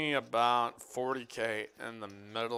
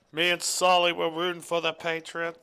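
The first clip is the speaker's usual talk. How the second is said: higher, louder bad New England accent; terrible New England accent; 8 semitones higher, 7 dB louder than usual. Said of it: "that's a terrible New England accent".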